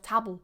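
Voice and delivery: "table" with a short a; mispronounced table. Shown as a demonstration. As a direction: say "table" like "tabble". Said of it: "instead of table".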